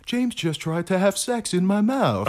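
आधी हँसी में; laughing through the line. Acted. Quoting Mark, laughing.

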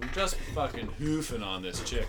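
Canadian hick bragging to a buddy; hammed-up small-town Canadian accent. Shown as a demonstration. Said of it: "they fucking talk like this".

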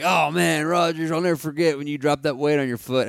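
a hint of a coach ribbing an old player; mildly acted fond teasing; imitated old coach. Old coach reminiscing, retold.

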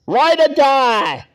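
loud, slow rallying cry; rallying shout. Real, not acted. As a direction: draw out the battle cry.

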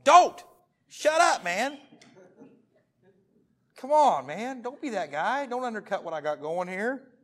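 panicked plea to a buddy who's ruining the move; retold frantic yell. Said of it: "I call it, and I'm going".

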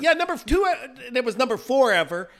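flustered coach working it out aloud; losing it. Retold or imitated. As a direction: imitate an excited, stumbling coach. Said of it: "Coach Squires was losing it".

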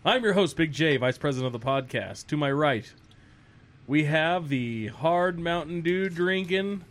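hyped host introduction voice; announcer intro. Acted. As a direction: introduce them like a show host.

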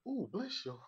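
light Southern coo; a hint of sugary pity; mock sympathy. A Southern woman consoling after a disaster. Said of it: "you can also hear".

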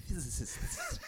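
hissy snake voice, slow; drawn-out s like a snake. Shown as a demonstration. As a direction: hiss the s's slowly like a snake. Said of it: "Sounds like a snake".

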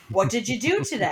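mock scripted small talk; stilted dialogue. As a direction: recite it like a rehearsed cue line. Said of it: "that's not real talking".

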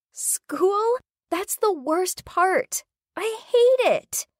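put-on high, whiny teen girl voice; bored teen girl. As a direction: complain like a bored rich girl. Gabby voiced in story.

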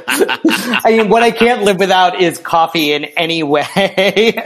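real laugh running through the words; amused laughter. Real, not acted. Amused answer about coffee.

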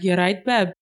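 casual Brummie greeting; light Birmingham accent. Acted. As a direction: greet them like a Birmingham local. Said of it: "a very Brummy thing to say".

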